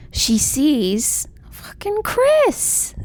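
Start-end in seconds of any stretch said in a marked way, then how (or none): 1.5-2.9 whispered, slow swear; dramatic reveal. Retold or imitated. Teller reveals the old flame in Central Park, whispered dramatically. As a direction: drop to a stunned whisper for the name.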